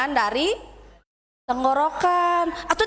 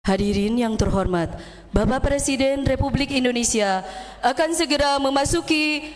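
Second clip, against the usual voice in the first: booming ceremonial announcer from the chest; formal MC announcer; 3 semitones lower than usual. Shown as a demonstration. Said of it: "suantena teh sarara gini".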